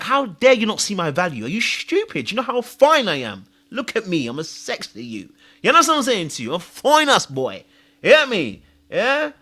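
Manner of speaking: mock-outraged reenactment of wounded pride; vexed. Telling off an ex who missed his value, vexed. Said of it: "I was so vexed".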